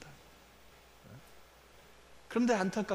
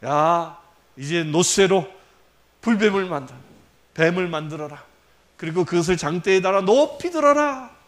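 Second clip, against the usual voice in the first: lightly voiced God commanding, louder; God's command; 7 dB louder than usual. God commanding Moses to raise the serpent, mild proclamation. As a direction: proclaim it like a herald, a touch grand. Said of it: "모세에게 말하게".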